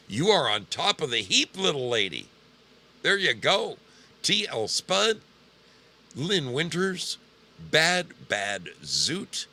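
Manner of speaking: excited shout-out. Real, not acted. Cheering lucky followers on stream.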